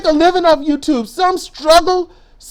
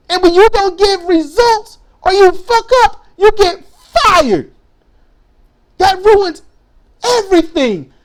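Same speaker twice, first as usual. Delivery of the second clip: angry outburst; 4 semitones higher than usual. Real, not acted. Ranting about losing jobs.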